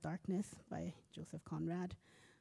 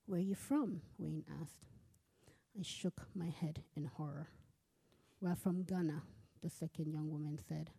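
steady literary reading, characters lightly voiced; story reading. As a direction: read the chapter aloud to listeners. Author reads her novel aloud.

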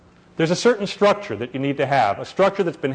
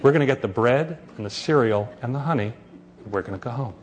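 put-on a mother calmly listing the errands to her crying child; calm and composed; 2 semitones lower than usual. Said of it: "in this voice, completely calm and composed".

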